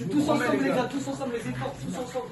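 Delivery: high, urgent rallying cry; barking gym coach. Real, not acted. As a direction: fire up the team together. Coach rallying team before match.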